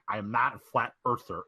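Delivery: imperfect imitation of a country accent. AJ insisting to the panel, in a rough country accent. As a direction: have a go at a Southern country accent. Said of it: "can't really do that country".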